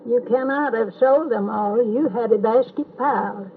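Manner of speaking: put-on steady, measured reading of an old story poem; poem recitation. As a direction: recite it like a remembered childhood poem, evenly paced.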